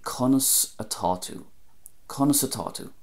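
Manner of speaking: "Conas Atatu" said the Munster way; Munster Irish. Shown as a demonstration. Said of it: "In Munster ... it would be".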